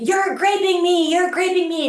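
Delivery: high, insistent repeated cry; retold protest. Woman protesting to attacker while wrestling, high and insistent. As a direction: imitate a high-pitched alarmed accusation.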